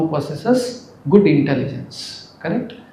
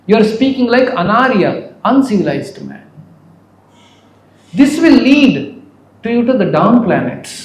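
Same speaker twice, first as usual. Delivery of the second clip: raised, brisk retold reproach; scolding; 5 semitones higher, faster than usual. Krishna warning Arjuna of consequences, mildly scolding. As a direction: warn him firmly, as if quoting a reprimand. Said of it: "chastised Arjuna".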